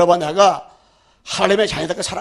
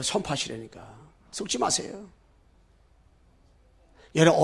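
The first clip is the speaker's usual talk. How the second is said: normal talking voice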